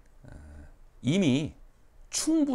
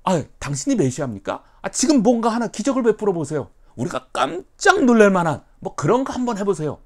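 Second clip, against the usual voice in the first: much higher, louder taunt; mocking challenge; 10 semitones higher, 11 dB louder than usual. Scribes taunting Jesus, loud mocking challenge. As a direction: sneer at the messiah claim. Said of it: "뭐, 예수님 메시아라고".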